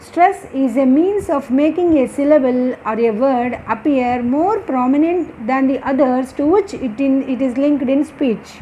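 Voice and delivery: slow, deliberate reading of a definition; dictation. Acted. Teacher dictating an English definition slowly to students. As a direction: read it out so students can write.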